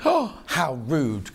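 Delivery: slow, drawn-out playful indignation; a hint of mock outrage; mock offended. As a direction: pretend to be insulted. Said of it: "mock offence at the message".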